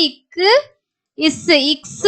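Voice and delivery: "இக்கு, இஸ்" as separate sounds, then blended into "இக்ஸ்"; sounded-out letter sound. Shown as a demonstration. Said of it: "அப்படின்னு தான் படிப்போம்". ("இக்கு, இஸ்" பிரித்து, "இக்ஸ்" என சேர்த்து உச்சரிப்பு)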